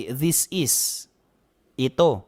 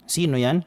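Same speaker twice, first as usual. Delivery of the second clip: "Sino yan?" ends on a rise at "yan"; a light asking lift; rising question tune. Shown as a demonstration. Teacher repeats the correct question tune. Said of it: "kailangan patanong din po yung tono natin".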